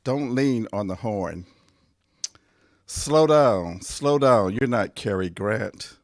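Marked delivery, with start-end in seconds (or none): 2.9-3.8 exasperated command. Acted. Nagging a reckless driver. 3.8-4.5 exasperated command. Acted. Nagging a reckless driver.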